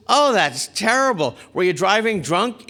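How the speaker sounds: high, exclaimed sympathy; gasping-style "oh" in imitated shock; mock dismay. Woman hearing of the car accident, mock dismay.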